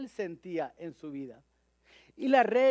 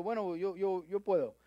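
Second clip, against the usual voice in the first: put-on child's voice. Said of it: "él dijo".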